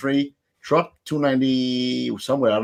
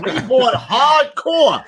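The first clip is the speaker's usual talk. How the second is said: excited hype; 11 semitones higher, 3 dB louder, much slower than usual. Acted. Hyped shout.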